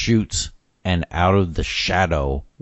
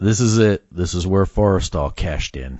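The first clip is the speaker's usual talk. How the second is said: usual speaking voice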